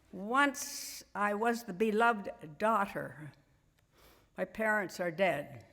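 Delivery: subdued, measured poem reading; poetry recital. Acted. Reads part two of the poem.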